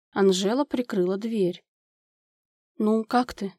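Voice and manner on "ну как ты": ordinary delivery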